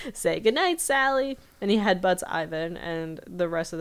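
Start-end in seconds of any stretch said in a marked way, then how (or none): 0.0-0.1 put-on higher and louder, taunting old-timer; defiant old man. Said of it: "McGucket's like". 0.1-1.4 put-on higher and louder, taunting old-timer; defiant old man. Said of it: "McGucket's like".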